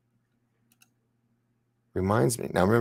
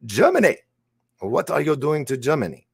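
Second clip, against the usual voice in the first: excited; 9 semitones higher, 6 dB louder than usual. Real, not acted. Excited at viewer's trip.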